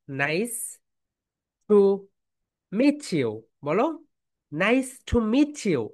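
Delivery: nice to meet you spaced out, meet you blended; slow drill. Shown as a demonstration. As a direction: model each word with long pauses. (ধীরে ধীরে শব্দ আলাদা করে বলা)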